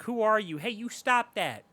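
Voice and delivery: high, slow frightened plea; mock scared girl. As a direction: squeak it out like a startled victim. Mimicking Vera scared.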